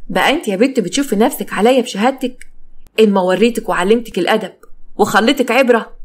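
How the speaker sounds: menacing, with a touch of rage; angry threat. Acted. Husband threatening wife over her education, angry. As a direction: threaten her, building slightly in force. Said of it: "والدم غير في عروقه".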